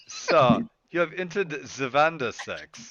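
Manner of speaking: mock German announcement; lightly hammed German accent. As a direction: put on a German accent, near normal pitch. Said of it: "every time a German accent comes out".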